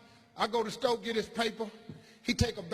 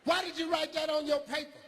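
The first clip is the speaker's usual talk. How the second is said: teacher voice; 8 semitones higher than usual. Retold or imitated. Teacher questions, high.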